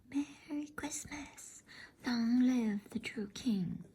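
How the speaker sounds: slow, high whispered cry, held back. A narrator's reading. Father Christmas calls farewell to the children, slow high whispered shout. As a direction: cry out joyfully but keep it a whisper. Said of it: "Then he cried out".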